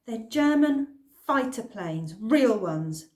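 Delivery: tense words pushed through clenched teeth; through gritted teeth. Acted. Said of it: "I said through gritted teeth".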